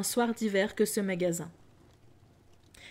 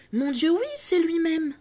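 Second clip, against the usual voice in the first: much higher and louder, thrilled; delighted exclamation; 8 semitones higher, 6 dB louder than usual. Acted. Scrooge telling the spirit it really is Dick, much higher and louder with delight. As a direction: burst out with glee at seeing an old friend.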